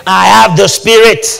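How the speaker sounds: loud, ringing declaration for the congregation to repeat; preacher's loud call to repeat; emphatic declaration. Shown as a demonstration. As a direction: proclaim it loudly to the room.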